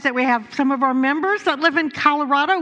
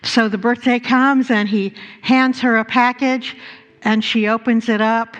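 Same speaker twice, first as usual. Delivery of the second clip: normal talking voice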